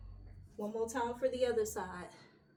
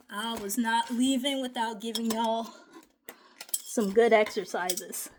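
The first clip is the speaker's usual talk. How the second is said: emphatic; 8 dB louder than usual. Real, not acted. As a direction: really lean into it. Promising the class good exercises.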